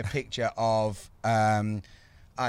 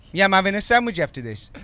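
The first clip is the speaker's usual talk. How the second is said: Birmingham accent; 6 semitones higher, 5 dB louder than usual. Shown as a demonstration. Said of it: "nailed your Birmingham accent".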